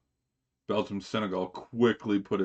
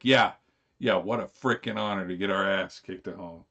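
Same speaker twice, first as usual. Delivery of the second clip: sarcastic fan; 4 dB louder than usual. Retold or imitated. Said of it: "I could see the fans being like".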